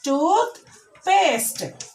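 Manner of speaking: Toothpaste drawn out in two parts, high on Tooth; teacher's careful Toothpaste, first syllable stressed. Shown as a demonstration. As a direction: split Toothpaste, stressing Tooth and letting paste fall. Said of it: "Stress the first syllable".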